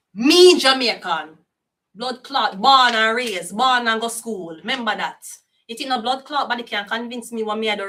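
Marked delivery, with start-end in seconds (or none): 0.1-4.6 proud insistence. Real, not acted. Insisting on own Jamaican roots.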